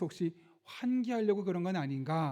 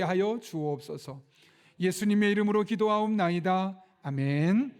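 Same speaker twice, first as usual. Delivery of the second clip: formal prayer, building louder to the Amen; congregational prayer; 3 dB louder than usual. Real, not acted. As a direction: lead the congregation in earnest prayer.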